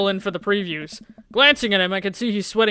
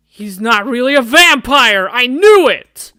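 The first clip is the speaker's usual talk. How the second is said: much louder, slow on the end; triumphant shout; 4 semitones higher, 11 dB louder, slower than usual. Acted. Girl exposing fake vampire date, triumphant shout. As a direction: crow it out in triumph.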